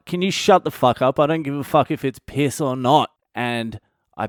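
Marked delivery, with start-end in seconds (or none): 0.1-3.1 irritated snap. Retold or imitated. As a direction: tell them to shut up, fed up. Snapping back at mates.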